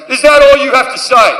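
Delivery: high, affronted demand; indignant God. Acted. God confronts partygoers returning to their party, high indignant demand. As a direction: challenge them as a slighted God.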